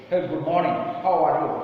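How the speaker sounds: lightly imitated rough French accent in English; harsh French-English accent. Shown as a demonstration. Teacher demonstrating the author's surprising acquaintance, mild harsh French accent. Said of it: "this is how this accent they have put".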